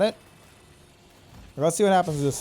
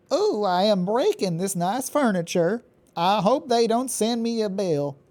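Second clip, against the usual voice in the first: Southern Mother mode; 4 semitones higher than usual. Pretend. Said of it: "Don't mind my weird accent".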